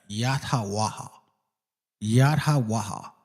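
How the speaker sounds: "Yat Ha Waha" in clear, separate open syllables; demonstrated pronunciation. Shown as a demonstration. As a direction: model "Yat Ha Waha" with an airy final ha. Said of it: "like that".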